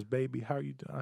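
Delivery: very soft, sweet greeting; imitating sweet old lady. Elderly waitress greeting a customer at three A M, softly sweet. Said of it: "the sweetest old white lady".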